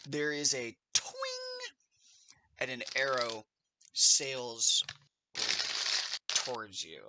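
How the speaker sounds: measured scene-setting with vocal sound effects; game master narration. Acted. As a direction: narrate the arrow's flight in pieces, pausing for suspense, acting out twing and thunk. Game master narrates the arrow attack.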